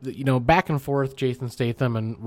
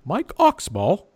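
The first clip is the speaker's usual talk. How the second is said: slow, higher, reading the name; an agent reading a name, slowly; TSA agent voice; 6 semitones higher, slower than usual. Retold or imitated. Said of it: "he's like".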